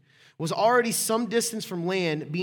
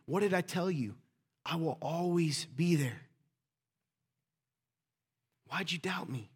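gentle reassurance. Acted. Jesus gently reassuring doubting disciple.

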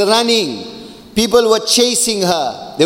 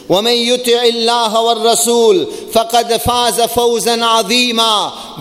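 fast chanted Arabic verse; quick Quranic recitation; 2 semitones higher, much faster than usual. Acted.

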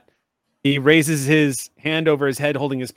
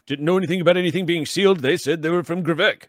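higher, faster, gushing doctor; chatty doctor; 4 semitones higher than usual. Acted. Doctor gushing goodbyes and cooing at the little creature, higher and fast. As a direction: rattle off pleasantries, then coo at the pet. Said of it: "and Doctor says".

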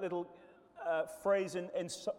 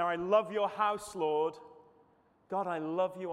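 fervent declaration; 3 semitones higher, 6 dB louder than usual. Acted. Preacher voicing David's psalm.

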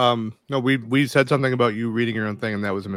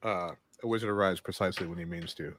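Gandalf quote; 8 semitones lower, 10 dB quieter than usual. Pretend. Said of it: "My card just says".

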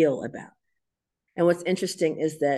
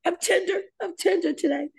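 tender; 12 semitones higher than usual. Retold or imitated. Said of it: "I was like".

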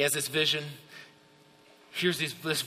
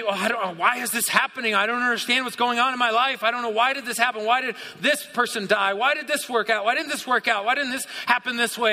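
higher-pitched, urgent run of questions; questioning believer; 5 semitones higher than usual. Acted. Preacher voicing a confused believer asking why, urgent questioning. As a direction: pile up the questions in pleading protest.

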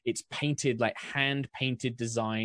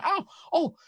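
Cockney flustered oh; 5 dB louder than usual. Acted. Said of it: "I'm gonna lose all my accents".

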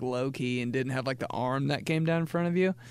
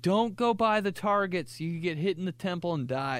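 camp counselor warning; 6 semitones higher than usual. Retold or imitated. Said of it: "They're like".

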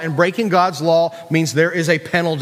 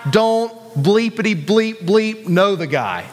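slow, emphatic denial with bleeps for curses; a drawn-out, censored cursing outburst; mock swearing; 3 semitones higher, slower than usual. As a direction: swear it slowly, word by word. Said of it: "He used bad language and said".

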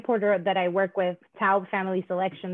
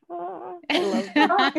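Caribbean soul voice; 9 semitones higher, much slower than usual. Retold or imitated. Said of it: "My Caribbean soul is like".

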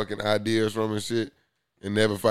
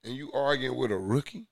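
exasperated; 6 semitones higher, 6 dB louder than usual. Real, not acted. Ranting about player beefing.

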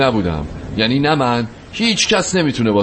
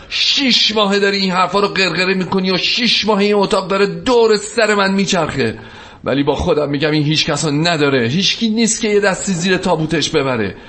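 higher-pitched outburst, building through the list; exasperated tirade; 4 semitones higher than usual. Acted. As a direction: pour out months of pent-up frustration. Fed-up tirade at Shervin.

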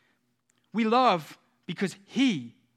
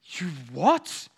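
high, hammed-up gasp of surprise on "Oh"; preacher mocking a shocked God in heaven, high mock surprise; 4 semitones higher, much slower than usual. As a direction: play God pretending to be scandalised. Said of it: "He's not like".

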